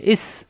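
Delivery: ইস with a firm S and no jolt after it; firm, no push. Shown as a demonstration. Teacher warning learners against a push, firm unbounced ইস. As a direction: hold the S in ইস without a bounce. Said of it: "ধাক্কা হবে না কিন্তু".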